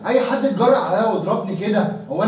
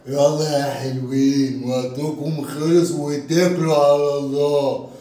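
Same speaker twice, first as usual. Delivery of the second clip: lightly voiced thug; 5 semitones lower, slower than usual. Thug dismissing them.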